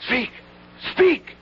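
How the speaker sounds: proclamation. Acted. Herald proclaiming to assembled crowd.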